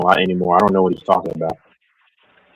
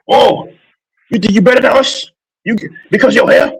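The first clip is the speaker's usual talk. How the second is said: much higher, louder mock Asian accent; 12 semitones higher, 3 dB louder than usual. Mocking haters in chat, imitating them in a high mock Asian accent. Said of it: "That's like an Asian accent".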